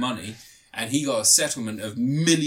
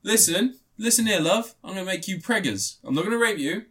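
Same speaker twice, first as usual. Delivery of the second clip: higher, lightly put-on villain; mock menacing old man; 6 semitones higher than usual. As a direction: ham up a creepy captor. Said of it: "He's only gone and gone".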